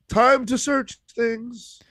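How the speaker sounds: slow mock announcement. Teasing his co-host, drawn out mock announcement. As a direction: stretch every word up high.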